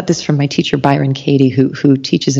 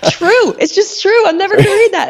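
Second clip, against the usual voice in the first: much higher, laughing through the words; laughing disbelief. Real, not acted. Host marvelling at her teacher's honesty, laughing high. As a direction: giggle it out in awe.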